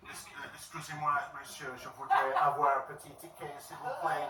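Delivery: put-on halting French with an English accent. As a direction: play an English-speaking tourist attempting French. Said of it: "say it in your English accent".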